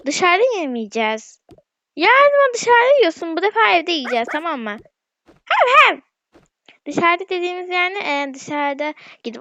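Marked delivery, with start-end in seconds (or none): 2.0-4.8 scolding. Real, not acted. Scolding the dog. 5.3-6.0 mock barking. Voicing the dog.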